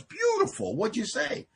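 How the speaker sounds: very high mock rapture, then down a little; sponsor's delight. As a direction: float the sponsor's praise up high. Sponsor voiced in retold talk.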